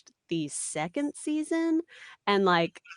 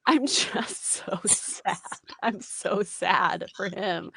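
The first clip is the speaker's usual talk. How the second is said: retold heartbreak; much slower than usual. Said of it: "You look like someone just shot your puppy".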